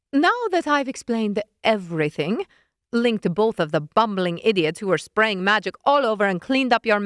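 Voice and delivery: snippy witch voice, lightly done; lightly voiced scolding witch. Witch scolding Leonid, mildly exasperated.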